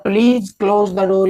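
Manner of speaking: very slow, word by word; धीरे-धीरे उदाहरण पढ़ना; slow example reading. Shown as a demonstration. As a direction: dictate it slowly to students. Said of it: "third example है हमारा".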